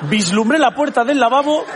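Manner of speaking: slow, dramatic action-hero narration; milk each step like a thriller; hammed-up suspense, slowed right down; mock epic slow-mo. Mock action-film countdown to toilet.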